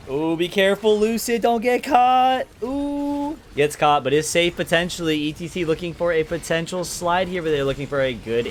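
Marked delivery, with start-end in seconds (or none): 0.1-3.4 high, loud, tense caster call; excited warning. Real, not acted. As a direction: plead with the player not to get caught. Warning player about being caught.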